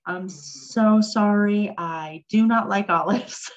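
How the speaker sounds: re-enacted sheepish refusal, drawn out at first; sheepish apology. Guest turning down a friend's olives, sheepishly. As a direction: apologize sheepishly, stretching the opening words. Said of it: "I felt so sheepish".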